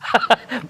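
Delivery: quick amused laugh that falls away; a brief chuckle before apologising; short laugh. Real, not acted. Laughs after the crude meme clip.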